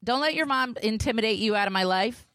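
high-pitched, teasing holler; playful calling out. Pretend. Podcaster hails a girl passing with her mom, high playful call. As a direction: call over to her in a high, mock-bold voice.

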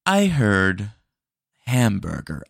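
loud, flat machine confirmation; robot voice. Acted. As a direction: mishear like a dumb bot. AI bot mishears order.

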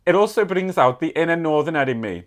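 put-on Welsh letter-reading voice; Welsh accent. Reading a Welsh listener's thankful letter, in a Welsh accent. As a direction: read it aloud in a Welsh accent. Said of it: "I can do my Welsh accent".

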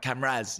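"Cameras" with a downward inflection at the end; Irish cameras. Retold or imitated. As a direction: drop the pitch on "Cameras". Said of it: "All these French people go back".

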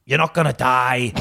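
lightly hammed northern English voice; thick northern accent. Brother tells dying sister she's fine, mock northern accent. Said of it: "he's got this thick northern accent again".

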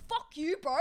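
high-pitched imitation of an indignant bro; mock confrontation. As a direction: act out telling a mate off, lightly. Voicing the men standing up to him.

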